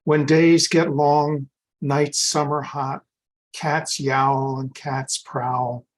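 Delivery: slow, deliberate elegy recital; poetry reading. Acted. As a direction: read the verse slowly, pausing after each line. Poet reads elegy for teacher.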